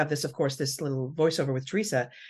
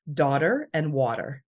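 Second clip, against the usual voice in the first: slow New Jersey daughter and water; drawn-out Jersey vowels in daughter and water; Jersey accent; 3 semitones lower, slower than usual. Shown as a demonstration. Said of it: "get my Jersey accent prepared".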